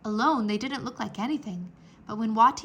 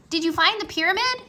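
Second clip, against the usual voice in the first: higher, louder, fast eager question; 9 semitones higher, 7 dB louder, faster than usual. A narrator's reading. Rory eager for news.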